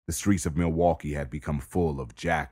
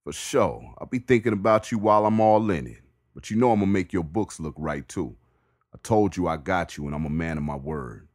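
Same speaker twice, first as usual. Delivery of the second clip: Bricks voice; 3 semitones higher, 5 dB louder than usual. Acted. Bricks voiced, answering neighbor.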